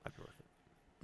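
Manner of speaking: slow breathy whispered echo of his own words. Pretend. Streamer whispers his own line back slowly to himself.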